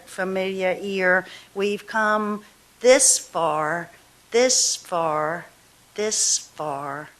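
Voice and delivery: slow, measured poetry reading; a poet reading her own verse slowly to the room; poem reading. Acted. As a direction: lay each line down slowly, letting the breaks breathe. Reads poem Long Marriage.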